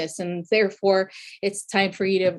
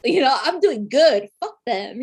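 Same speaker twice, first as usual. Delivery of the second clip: defiant denial; 5 semitones higher than usual. Retold or imitated.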